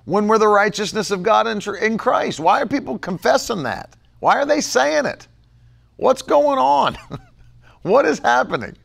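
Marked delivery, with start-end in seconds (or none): 2.4-8.8 higher, bewildered questions; baffled disbelief; what on earth; incredulous. Real, not acted. Incredulous preacher.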